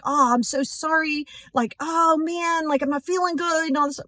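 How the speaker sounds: mock apology. Acted excuse to dentist.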